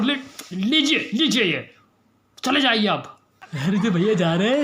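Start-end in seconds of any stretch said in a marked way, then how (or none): 0.0-3.2 irritated dismissal; angry. Acted. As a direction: hand it over grudgingly and send him off. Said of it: "गुस्सा क्यों हो रहा है". (गुस्से में टालते हुए)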